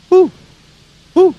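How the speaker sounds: short loud owl hoots; playful owl call. Shown as a demonstration. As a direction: hoot like an owl for kids.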